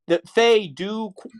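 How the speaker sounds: hiccuping mid-sentence; words broken by hiccups. Real, not acted. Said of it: "sorry, I got the hiccups there for a moment".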